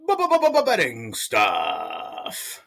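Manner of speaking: b-b-b-betting stutter, very slow; stutter effect. Acted. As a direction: stutter the title like a glitching record. Stuttered show title gag.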